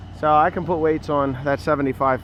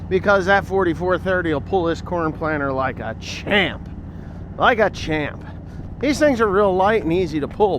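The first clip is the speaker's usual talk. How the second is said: sarcastic; 5 semitones higher than usual. Acted. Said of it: "You hear the sarcasm in my voice?".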